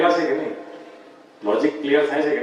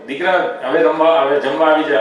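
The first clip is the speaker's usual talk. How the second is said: mother calling her son again, slightly louder; mother calling her son in from cricket, a touch louder; calling a bit louder; 3 dB louder than usual. Retold or imitated. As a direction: raise the volume a little on the second call. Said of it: "થોડી આ volume વધારીને".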